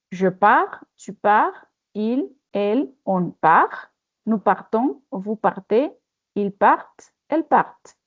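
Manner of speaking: cada forma de partir dicha despacio y clara, sin pronunciar la consonante final; pronunciación modelo. Shown as a demonstration. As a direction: marca bien cada persona, sin sonar la s ni la t finales. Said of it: "Je vais prononcer". (profesora modelando la conjugación de partir para la clase, con pronunciación cuidada)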